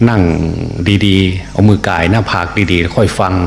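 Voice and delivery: slow, deliberate advice. Shown as a demonstration.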